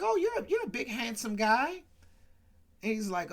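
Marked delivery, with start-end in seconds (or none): 0.0-1.8 high, mock-flirty woman's voice, lightly imitated; mock flirty Geraldine. Teller voices Geraldine flirting with Jim Brown, high mock voice. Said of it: "she's like".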